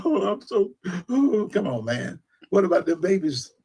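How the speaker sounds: hammed-up fake weeping preacher; mock crying Warnock. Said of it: "Acting like he was crying".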